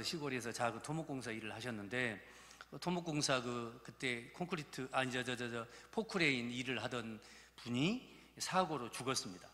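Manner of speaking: ordinary talk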